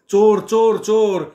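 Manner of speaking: loud high cry of thief; shouting thief. Acted. Husband yells to alarm the house, loud cry. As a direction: yell it from the gut. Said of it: "बेंबीच्या देठापासनं मी ओरडायला लागलो".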